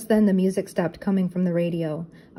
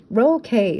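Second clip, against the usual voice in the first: Scooby bark; 4 semitones higher, 5 dB louder than usual. A narrator's reading. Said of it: "Scooby barked".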